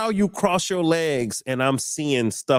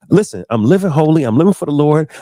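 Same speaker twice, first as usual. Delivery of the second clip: louder, insistent declaration; retold loud protest; 2 semitones higher, 7 dB louder than usual. Refusing the woman's offer, loud righteous protest. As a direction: proclaim it louder, standing firm. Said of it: "I said".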